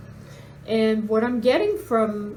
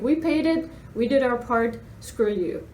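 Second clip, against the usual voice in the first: mock smug brush-off; 2 semitones higher than usual.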